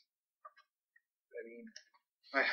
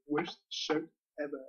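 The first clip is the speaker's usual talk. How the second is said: a hint of a pompous cartoon collector; lightly voiced catchphrase impression of a snooty comic shop owner; Comic Book Guy. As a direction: pronounce the verdict like a smug comic nerd. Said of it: "the comic book guy from Simpsons".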